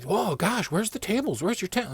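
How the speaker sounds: a hint of a startled boss; mock surprise. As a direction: imitate the boss, caught off guard.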